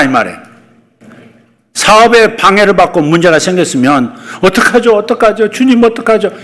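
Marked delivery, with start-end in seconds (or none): 4.4-6.3 helpless worrying. Shown as a demonstration. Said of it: "이렇게 말하지 말고".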